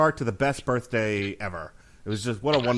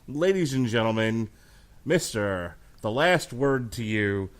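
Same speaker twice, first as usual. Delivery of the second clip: boxing ring announcer. Pretend. Second ring announcer intro.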